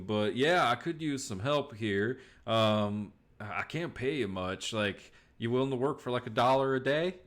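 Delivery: lightly voiced hesitant rancher; a touch of plain-spoken Old West farmer; western rancher. Game master voices the rancher.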